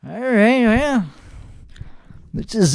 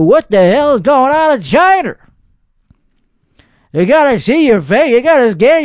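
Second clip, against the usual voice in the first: higher-pitched, passionate Texas accent; 4 semitones higher than usual. Real, not acted. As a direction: ask it worked up, Texas accent showing. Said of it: "my Texas accent is coming out".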